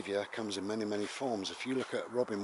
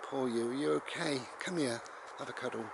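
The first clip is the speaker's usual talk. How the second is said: sympathetic mum. Acted. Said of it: "and your mum said".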